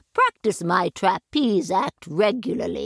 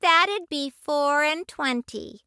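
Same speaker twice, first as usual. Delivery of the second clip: a hint of a ticket lady; 7 semitones higher than usual.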